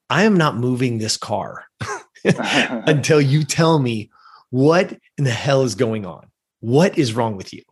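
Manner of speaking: slow, deliberate demand, each phrase set apart; imitated firm mom. Mom refuses to drive until told, slow firm demand. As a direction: lay down the law with pauses between phrases.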